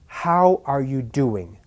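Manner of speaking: "how" and "doing" stressed, said slowly; slowly, leaning on "how" and the "do" of "doing"; slow rhythm with "are you" light. Shown as a demonstration. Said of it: "stressed on the first and the last".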